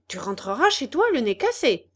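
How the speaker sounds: loud menacing warning; threatening. Acted. Boys warn the puppet, loud menace. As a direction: growl a warning at him.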